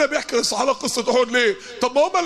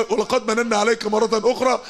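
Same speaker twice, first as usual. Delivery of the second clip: Quran recitation. Acted.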